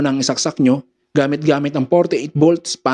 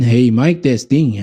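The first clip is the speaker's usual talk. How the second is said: bass-heavy mic check; full bass boost; 3 semitones lower, slower than usual. Shown as a demonstration. Sound tech showing bass turned all the way up, boomy voice. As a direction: test the mic with the lows at maximum. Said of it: "ang lakas na ng bass natin".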